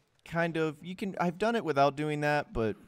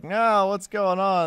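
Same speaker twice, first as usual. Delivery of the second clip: higher, louder, slow, panicky cry; mock a man's alarm as he slips; panicked guy; 7 semitones higher, 6 dB louder, slower than usual. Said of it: "this guy's gonna be like".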